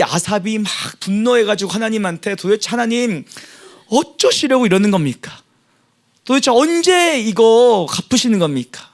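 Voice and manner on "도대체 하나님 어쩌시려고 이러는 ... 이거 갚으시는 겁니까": lamenting plea. Acted. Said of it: "하고 막 한탄을 하는 겁니다".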